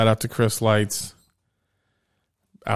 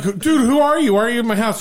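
high-pitched, hammed-up indignation; mock alarm; 9 semitones higher than usual. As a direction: challenge an intruder in comic disbelief. Acted reply to the lunatic.

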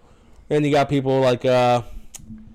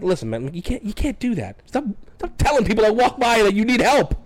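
retold yelling; 10 semitones higher than usual. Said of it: "It looks like I'm just yelling at you".

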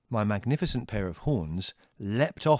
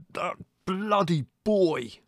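slow, higher held-back fury; muted roar; 9 semitones higher, much slower than usual. Acted. Dazed brother to Mother, blaming the boy in a muted roar. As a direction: roar it under the breath. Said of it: "in a sort of muted roar".

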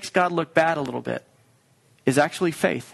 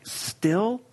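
impatient friends; 3 semitones higher, much slower than usual. Retold or imitated. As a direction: sigh it like a tired friend. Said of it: "they're like".

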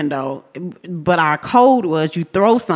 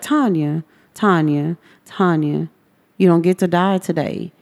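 soft but strong call. Retold or imitated. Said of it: "she had this really soft voice".

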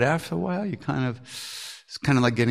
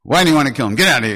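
loud angry shout at the crowd; yelling to save the dog; 5 semitones higher, 12 dB louder, faster than usual. Retold or imitated. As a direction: drive the people off with a yell. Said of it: "he yelled at the people".

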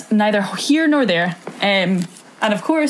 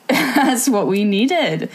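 relishing; 4 semitones higher, much slower than usual. Real, not acted. Relishing the gossip, drawn out.

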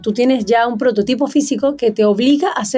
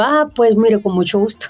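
put-on light Colombian accent, breaking into a laugh at the end. Answering a Colombian fan on the street, light Colombian accent. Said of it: "yo imitaba el acento de las colombianas".

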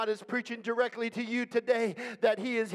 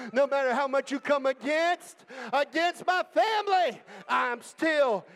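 building to a shout; preaching climax. Acted.

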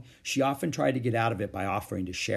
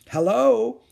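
through a bite of apple; 11 semitones higher, 9 dB louder than usual. A narrator's reading. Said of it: "said Ramona through a bite of apple".

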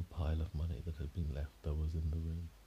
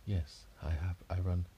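airy ghost lady; 3 dB louder than usual. Acted. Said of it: "talking like a ghost".

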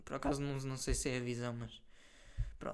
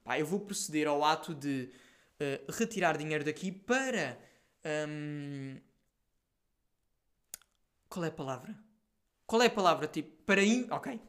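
mock politician. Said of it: "em vez de dizer".

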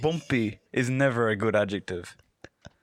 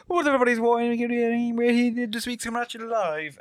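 higher, rushed hype intro; YouTuber rush; 11 semitones higher than usual. Retold or imitated. Cohost mocking YouTubers' rushed intros, higher pitch. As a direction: run it together like one word. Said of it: "the way some YouTubers like".

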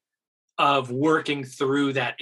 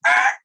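room's mock gasp; 8 dB louder than usual. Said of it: "The whole room went".

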